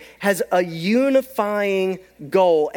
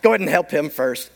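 mock casual; 5 semitones lower, faster than usual. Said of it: "You wouldn't be like".

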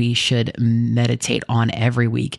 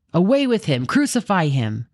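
higher crowd yell; 6 semitones higher than usual. Acted. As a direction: shout it like an angry mob. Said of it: "they yelled".

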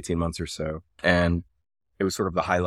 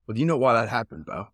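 lightly put-on Aussie guide; bad Australian accent; 4 semitones higher than usual. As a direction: question the jumper in mock Australian. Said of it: "again, I'm gonna do the, the bad Australian accent".

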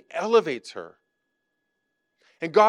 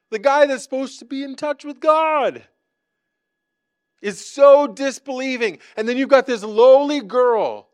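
higher and louder, driving each phrase; preaching at full force; 6 semitones higher, 6 dB louder than usual. Acted. Preacher contrasting the priest and lowly girl, fervent and loud. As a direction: preach it with rising fervor.

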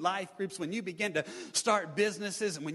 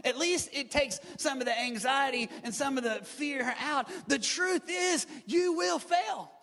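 raised-pitch sermon delivery with weighty stresses; emphatic preaching; 5 semitones higher than usual. Real, not acted.

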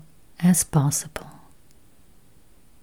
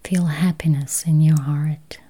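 slow, spacious meditation voice with long pauses; guided meditation; 5 dB quieter, slower than usual. Acted. Meditation guide easing listeners toward healthy eyes, slow guided-meditation voice. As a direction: guide listeners gently into calm, unhurried.

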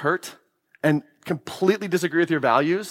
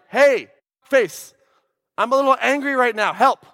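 clueless guy; 6 semitones higher than usual. Retold or imitated. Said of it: "For men, it's like".

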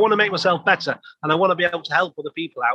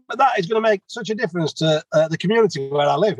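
high-pitched voice. Retold or imitated. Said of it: "didn't have quite a high-pitched voice like that".

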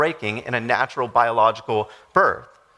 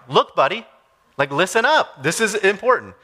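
lightly voiced buddy-buddy Jesus, pointing; a touch of casual teacher grabbing attention; casual paraphrase of Jesus; 5 semitones higher than usual. Pastor paraphrasing Jesus to the congregation, mild buddy-like urgency. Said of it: "Jesus' way of saying, like".

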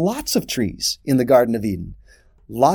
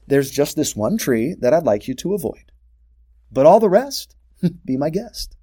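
raised, open-handed voice of God to Adam; generous God; 3 semitones higher than usual. Acted. God to Adam, pointing out the trees, generously raised voice. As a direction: offer every tree like a kind host.

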